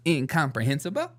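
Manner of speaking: mock-proud Incomprehensible again with a rising lilt; animated big word. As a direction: savor Incomprehensible like a new toy. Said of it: "animated about it".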